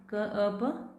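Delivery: कप split as क, अ, प; sounding out. Shown as a demonstration. Teacher breaking a word into sounds. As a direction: spell कप out sound by sound. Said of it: "जैसे कप".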